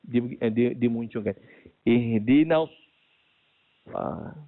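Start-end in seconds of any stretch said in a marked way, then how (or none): 1.8-2.7 "Ihdinas" with pouted lips on the s; the faulty version of "Ihdinas"; wrong sad with rounded lips. Shown as a demonstration. Teacher repeating the error, then calling it wrong. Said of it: "bukan, salah".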